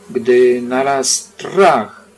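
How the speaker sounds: usual speaking voice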